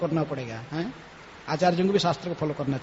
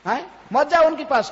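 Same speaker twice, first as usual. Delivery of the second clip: worried crowd pleading; 6 semitones higher, 3 dB louder than usual. Retold or imitated. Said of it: "सब लोग".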